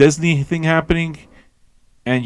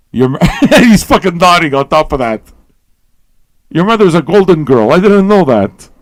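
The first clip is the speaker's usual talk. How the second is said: laughing disbelief; 5 semitones higher, 7 dB louder than usual. Real, not acted. Laughing at a guest's mother on Zoom.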